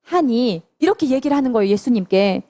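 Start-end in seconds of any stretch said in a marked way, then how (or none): 0.0-0.6 slow, measured verse recitation; drawn-out scripture reading; unison scripture reading. Real, not acted. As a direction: lead a group reading, stretching each phrase. Leads unison Bible verse reading.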